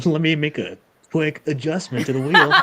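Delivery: laughing through the words. Real, not acted. Streamer laughing while rigging the wheel, laughing. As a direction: giggle out the line.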